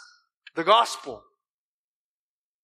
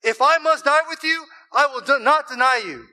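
higher and louder, zealous and emphatic; Peter's fierce, passionate promise; emphatic, passionate vow; 6 semitones higher, 5 dB louder than usual. Retold or imitated. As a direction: swear it like you'd die for him. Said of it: "but he said emphatically".

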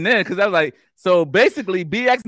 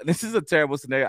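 laughing; faster than usual. Real, not acted. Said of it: "I didn't mean to laugh".

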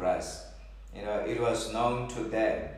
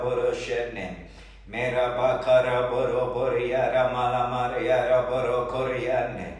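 rhythmic ecstatic tongues, building; speaking in tongues. Acted. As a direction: pour out syllables in tongues. Speaking in tongues during prayer.

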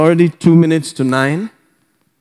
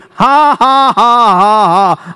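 big, high, measured ha-ha-ha; deliberate preacher's laugh; 5 semitones higher, much slower than usual. Shown as a demonstration. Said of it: "Why are you laughing?".

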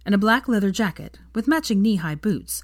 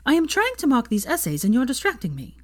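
sharp hissed whisper, higher; snapped whisper; 7 semitones higher than usual. A narrator's reading. Hermione snapping at her distractor in a whisper. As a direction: snap it under your breath. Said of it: "she snapped".

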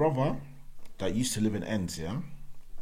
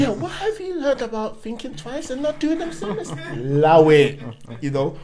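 high laughing mockery; 12 semitones higher, 8 dB louder than usual. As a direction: crack up while mocking. Mock lecture, laughing.

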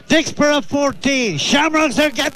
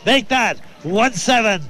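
auctioneer. Pretend. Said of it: "I'm like an auctioneer".

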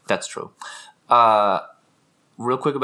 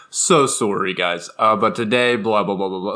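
lower-pitched impression of a teacher; mimicking English teacher; 4 semitones lower than usual. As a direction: imitate a teacher's mannered apology. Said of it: "he'd be like".

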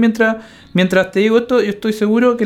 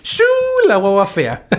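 southern Chilean rural. Retold or imitated. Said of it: "así tal cual".

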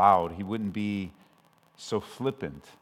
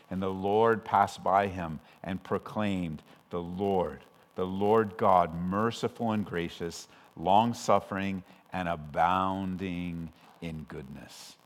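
slow, lower, reverent reading; unhurried reading of Exodus; solemn scripture reading; 4 semitones lower, slower than usual. Acted. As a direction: let the verse sink in slowly.

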